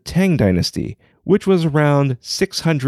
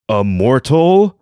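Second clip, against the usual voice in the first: incredulous emperor; 4 dB louder than usual. Acted. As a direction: let the word mortal rise in outrage. Emperor outraged at the news.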